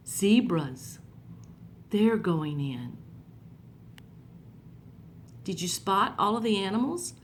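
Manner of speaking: put-on gentle, lively storybook reading for kids; reading to children. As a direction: read it like a picture book to little ones. Reads Bible story to children.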